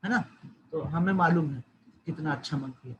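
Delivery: a hint of a wife's sneer; हल्का व्यंग्य; mild sarcasm. Shown as a demonstration. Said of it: "व्यंगात्मक तरीके से बोलती है".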